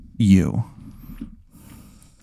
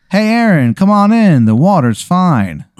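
much higher, bright teasing invitation; cheery girlfriend call; 8 semitones higher than usual. Acted. Girlfriend in the helicopter inviting Aaron aboard, high and teasing. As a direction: call him over playfully.

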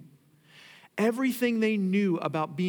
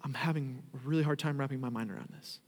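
muttered confusion; 3 semitones lower, 5 dB quieter, much faster than usual. Retold or imitated. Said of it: "they're going".

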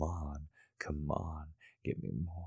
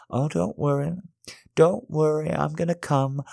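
raised voice; 10 semitones higher, 6 dB louder than usual. Acted. High, loud reassurance.

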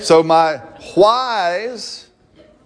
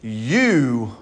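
slow, easing down at the end; God reassuring; much slower than usual. Retold or imitated. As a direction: tell the boy he is enough, gently and slowly. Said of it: "what he's saying is".

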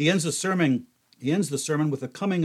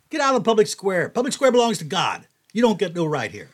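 loud, fast, higher street-preacher rant; mock angry preaching; 6 semitones higher, 5 dB louder than usual. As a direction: hammer it at them like a zealot shouting down rivals. Imagined preacher silencing opponents.

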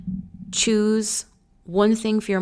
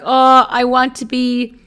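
excited gush; 5 semitones higher, 9 dB louder than usual. Retold or imitated. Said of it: "I'm literally like".

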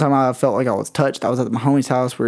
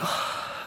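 acted sigh; 12 dB quieter than usual. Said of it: "I'm just like".

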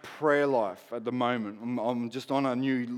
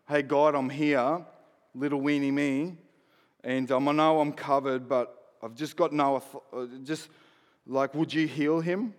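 timid begging prayer; 2 semitones lower than usual. Retold or imitated. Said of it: "I'm not begging for it".

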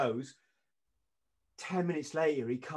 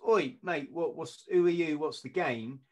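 doorman challenge; 3 semitones higher, 4 dB louder than usual. Retold or imitated. Doorman challenging man pushing past.

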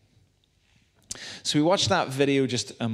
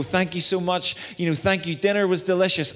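gushing guest; 6 semitones higher than usual. Retold or imitated. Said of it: "Or, like, you know".

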